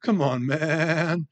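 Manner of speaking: slow, drawn-out groan of protest; slow mock-weary come on man; mock exasperated plea. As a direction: stretch it out like a tired friend being teased. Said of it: "and I'll say".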